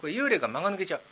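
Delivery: normal talking voice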